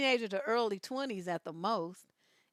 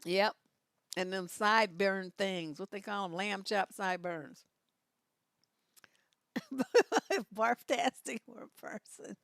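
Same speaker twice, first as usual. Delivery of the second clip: ordinary talk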